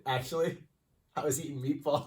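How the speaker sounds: laughing as he admits it; amused confession. Real, not acted. Co-host admits his pre-show meal, amused and laughing. Caught eating before the show.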